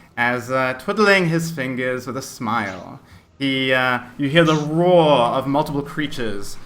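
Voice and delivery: ordinary talk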